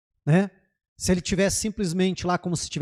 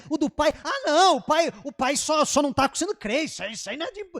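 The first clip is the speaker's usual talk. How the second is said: higher, mocking, brushing the father aside; dismissive inner voice; 6 semitones higher than usual. Preacher mocks how we judge the father, dismissive and high. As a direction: wave off the father's problem as minor. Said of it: "Na nossa cabeça".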